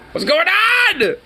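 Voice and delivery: very high, slow, squeaked disbelief; squeaky high voice. Real, not acted. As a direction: squeak it out, stretched and stunned. Shocked by the movie scene.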